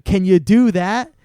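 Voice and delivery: slow, emphatic retold salesman; lightly acted deal closer, drawn out; pushy closer. Salesman demanding money from customer, slow and pushy.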